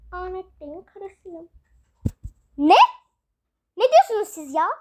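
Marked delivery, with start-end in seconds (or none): 0.1-1.5 the other woman, slowly and softly; soft phone voice. Acted. (yavaş ve çok alçak sesle)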